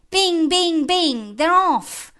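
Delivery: high, loud bell imitation into an excited shout; excited alarm cry. Reciter announces engines setting off, high excited cry. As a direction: ring it out, then send them off. Bells as fire engines set off.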